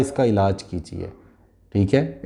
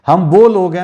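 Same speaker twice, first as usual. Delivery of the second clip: raised, louder, defiant declaration; fired-up tone; 5 semitones higher, 5 dB louder than usual. Real, not acted. Vowing to the nation, fired up and defiant. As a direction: ring out with conviction. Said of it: "میرے لہجے سے لگ رہا ہوگا".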